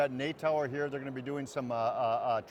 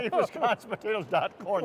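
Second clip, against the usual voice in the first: laughing; 5 semitones higher than usual. Real, not acted. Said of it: "That's the way this show's going".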